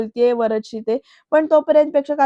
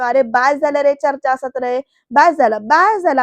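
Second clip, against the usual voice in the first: angry outburst; 4 dB louder than usual. Retold or imitated. Varad angrily cutting off the family debate, rising to a yell. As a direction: voice rising to a loud angry yell on the last बास झालं. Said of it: "Varad चिडून येऊन म्हणतो".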